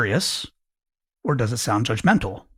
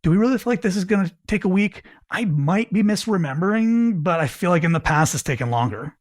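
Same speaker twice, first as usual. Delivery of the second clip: tentative; 4 semitones higher than usual. Shown as a demonstration.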